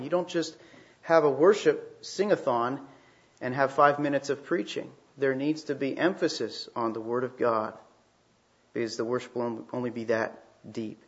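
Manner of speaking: ordinary talk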